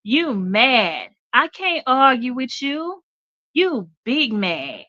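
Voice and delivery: high, slow mocking voice; imitating a reel creator. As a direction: tease him like the DJ in the reel. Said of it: "And he says".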